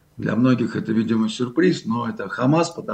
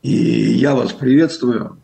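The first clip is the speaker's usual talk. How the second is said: hoarse, rough voice; talking through a sore throat; gravelly voice; 5 dB louder, slower than usual. Real, not acted. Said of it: "Прошу прощения за голос".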